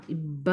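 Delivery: "ఇబ్బ" with a held double b; pressed doubled consonant. Shown as a demonstration. Teacher showing learners the doubled b, pressed "ఇబ్బ". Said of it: "ఒత్తి పలకాలి".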